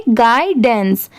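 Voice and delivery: गाइडेंस slowly, in two parts, "guy-dens"; pronunciation demo. Shown as a demonstration. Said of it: "इसे हम क्या pronounce करेंगे?".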